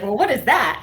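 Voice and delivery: high and loud, still laughing; amused mock question. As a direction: toss it off amused and incredulous. Husband's baffled reply, retold laughing.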